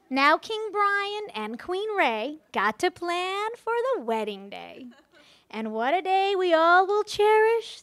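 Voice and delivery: lilting fairy-tale poem read aloud to the guests; playful wedding-toast fairy tale recital; storybook rhyme reading. Acted.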